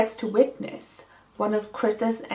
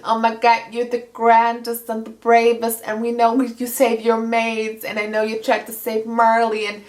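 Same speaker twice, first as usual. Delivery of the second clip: lightly voiced, gushing flattery; mild mock fangirl praise; gushing Georgia. Georgia flatters America to calm her, gushing. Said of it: "tries to calm America down".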